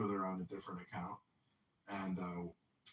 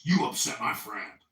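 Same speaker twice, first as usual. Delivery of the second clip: firm warning; 11 dB louder than usual. Retold or imitated. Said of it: "He goes".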